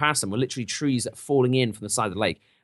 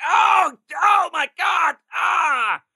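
high, slow, loud mock cry of pain; mock labor scream; 4 dB louder, much slower than usual. Mock scream as Draka's labor begins in the portal. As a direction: ham up a sudden scream of pain.

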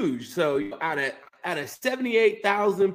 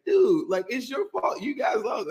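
joking blame; 7 semitones higher than usual. Retold or imitated. Fan ribbing rival fans in overtime, joking blame. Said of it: "a big joke".

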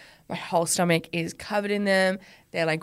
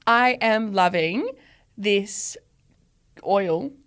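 slow, halting and effortful; pained; slower than usual. Real, not acted. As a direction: squeeze it out slowly, as if it pains you. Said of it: "that sounded really pained getting out of me".

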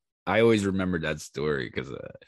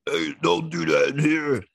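high, raised-voice telling-off; imitated scolding bartender; 8 semitones higher, 3 dB louder than usual. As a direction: play a bartender calling out a warning. Acts out bartender scolding him.

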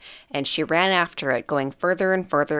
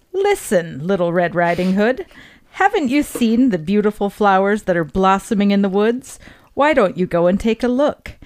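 coaxing wolf; 2 semitones higher than usual. Acted. Wolf tempting the girl toward the flowers, coaxing. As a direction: lure her off the path sweetly.

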